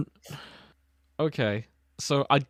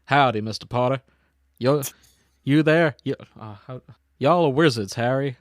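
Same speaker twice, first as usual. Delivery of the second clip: put-on Texan accent; 3 dB louder than usual. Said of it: "Texan Hagrid kicks down the door".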